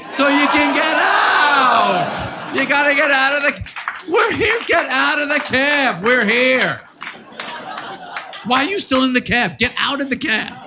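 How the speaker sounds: high, excited mock-parent hurry; mock parent urging.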